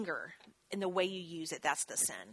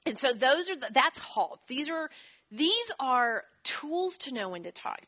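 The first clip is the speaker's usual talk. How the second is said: ordinary talk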